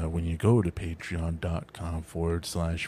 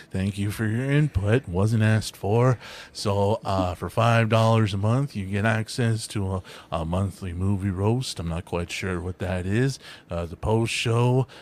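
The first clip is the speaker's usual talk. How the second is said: Reagan impression. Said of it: "I did the Gorbachev wall Reagan".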